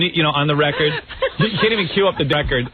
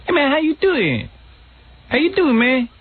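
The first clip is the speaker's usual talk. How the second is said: high put-on Black American accent; talking black; 12 semitones higher than usual. Shown as a demonstration. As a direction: plead in a much higher imitated schoolboy accent. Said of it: "I would talk black".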